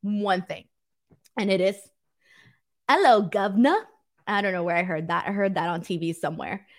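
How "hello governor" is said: light, exaggerated English accent. Shown as a demonstration. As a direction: greet in a hammed-up English accent. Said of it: "one thing in an English accent".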